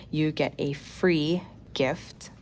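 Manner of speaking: whisper. Real, not acted. Teasing surprise gift.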